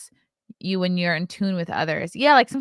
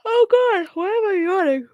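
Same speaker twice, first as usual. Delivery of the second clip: mock dismay; 13 semitones higher, 6 dB louder than usual. Real, not acted. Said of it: "I'm gonna Google this".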